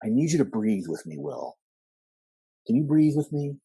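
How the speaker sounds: imitating a therapist coaxing a patient; mock-soothing counselor; psychologist voice. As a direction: do the typical psychologist, measured and coaxing. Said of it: "He'd do that kind of voice".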